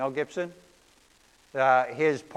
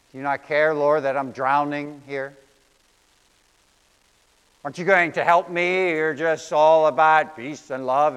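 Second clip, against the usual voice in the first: rising, louder desperate plea; pleading; 3 dB louder than usual. Retold or imitated. Preacher voicing a frightened believer's cry to Jesus, pleading. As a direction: beg Jesus like you're drowning.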